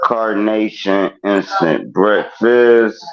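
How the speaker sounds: slow, deliberate brand name; said forward. Shown as a demonstration. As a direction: lay out the brand name slowly. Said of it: "now I'm gonna say it forward".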